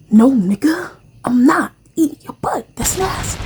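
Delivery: high, loud disgusted whine; disgusted refusal. Retold or imitated. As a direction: recoil in disgust. Refusing his request.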